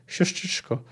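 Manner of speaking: soft, breathless whisper; pleading whisper to the departing girl. A narrator's reading. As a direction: whisper it to her sister. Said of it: "szepnęła Tris".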